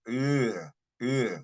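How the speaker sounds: "Uh" held long; drawn-out "Uh", one long sound; elongated vowel. Shown as a demonstration. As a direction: stretch the vowel of "Uh". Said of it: "it is an elongated sound".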